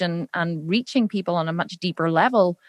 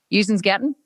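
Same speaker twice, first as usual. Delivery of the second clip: Belfast barman. Retold or imitated. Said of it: "he went".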